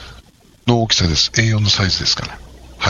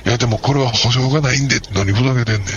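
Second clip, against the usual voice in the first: mild mock Osaka exchange; lightly acted Osaka-dialect quarrel. Clerk and customer trading lines at the counter in Osaka dialect. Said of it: "思いっきり大阪弁になりましたけどね".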